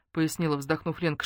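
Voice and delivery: ordinary delivery, nothing marked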